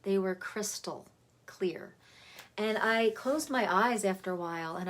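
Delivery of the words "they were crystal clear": crystal set apart, slowly and deliberately; stress on crystal. Shown as a demonstration. Teacher recalling the tones that came through, stressing crystal. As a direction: lean on the word crystal, taking time. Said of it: "Emphasis on the word crystal".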